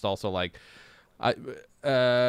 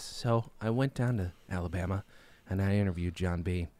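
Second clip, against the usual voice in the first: low, soft, measured public-radio reporter voice; Ira Glass; 4 semitones lower, 4 dB quieter than usual. Retold or imitated. Mocking This American Life interviewers with a soft Ira Glass voice. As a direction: ease into a lightly done, hushed radio-host delivery. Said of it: "has to talk like this".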